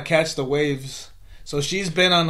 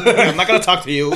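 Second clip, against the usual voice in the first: faster, louder mocking white guy; snooty clipped white-guy impression; 3 semitones higher, 6 dB louder, faster than usual. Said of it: "That's my white voice".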